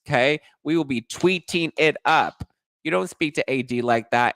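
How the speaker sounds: high, indignant sass at the man on screen; sassy callout. Real, not acted. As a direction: put him in his place, sassy and high.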